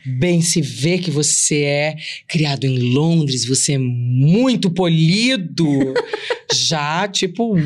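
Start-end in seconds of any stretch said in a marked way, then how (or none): 0.0-5.9 slow, laughing tease; flirty laughing quote. Retold or imitated. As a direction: flirt through a laugh, impressed by his manners. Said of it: "quoting her flirty reply".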